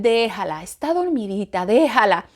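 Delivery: a hint of a hushing father; hushing husband. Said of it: "y él".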